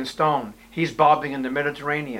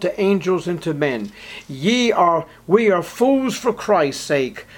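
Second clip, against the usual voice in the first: reads the apostle's words with biting irony, louder; sneering mock praise; sarcastic reading; 3 semitones higher, 3 dB louder than usual. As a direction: let the sarcasm drip from every line. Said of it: "that was sarcasm dripping".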